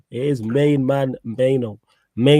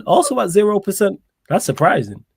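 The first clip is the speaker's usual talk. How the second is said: mock Brummie accent, pitched up at first; 5 semitones higher than usual. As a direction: put on a Birmingham accent. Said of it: "that's how they sound".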